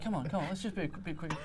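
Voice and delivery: soft, mild urging; quiet coaxing. Retold or imitated. Re-enacting himself urging girlfriend on, quiet coaxing. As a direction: coax gently, holding the voice down. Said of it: "me just very quietly going".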